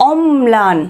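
"অম্লান" with the m held before lan; pronunciation demo. Shown as a demonstration. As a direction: lean on the m in "অম্লান". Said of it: "এই যে উচ্চারণটা দেখো".

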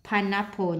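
"pineapple" stressed on PINE, the first syllable. Shown as a demonstration. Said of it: "nhấn âm một".

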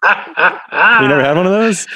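laughing. Real, not acted. Amused disbelief at the odd food.

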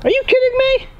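high-pitched, incredulous protest; outraged disbelief. Real, not acted. Confronts the other over a broken cactus, outraged. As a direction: protest as if you can't believe it.

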